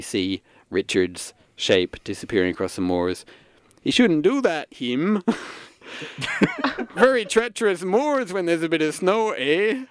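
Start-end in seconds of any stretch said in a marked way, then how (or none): 3.8-9.8 put-on rustic old father. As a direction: warn about the treacherous moors. Father calling after son-in-law.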